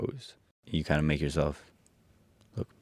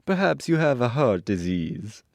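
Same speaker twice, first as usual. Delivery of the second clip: higher-pitched character voice, sliding down; Tin Woodman; 7 semitones higher, 4 dB louder than usual. A narrator's reading. Tin Woodman diagnosing the lion, higher character voice. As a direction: lift the voice for a tin man. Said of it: "said the Tin Woodman".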